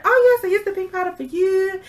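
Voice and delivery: put-on high, heavily accented manicurist voice; Asian accent imitation. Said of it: "y'all can say I'm racist".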